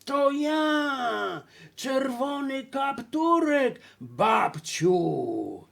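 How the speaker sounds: high, sing-song fake girl voice; wolf imitating a girl. Wolf fooling grandma at the door, singsong girl imitation. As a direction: mimic a girl's lilting call. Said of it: "próbując naśladować śpiewny głos dziewczynki".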